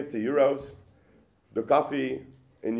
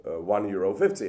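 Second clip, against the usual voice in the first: mock outrage. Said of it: "storm out at him and say".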